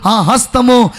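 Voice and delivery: slow, loud and emphatic shout; loud booming proclamation. Retold or imitated. Doctor declares to the healed man, loud slow shout. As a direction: proclaim it slowly at full volume. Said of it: "చాలా బిగ్గరగా ఆయన చెప్తున్నాడు".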